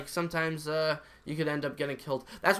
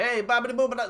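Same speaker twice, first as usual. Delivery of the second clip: higher mock-Italian gibberish; lightly put-on Italian accent; grandpa mocking Italians; 6 semitones higher, faster than usual. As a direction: imitate grandpa's fake Italian heckle. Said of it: "just making racist comments".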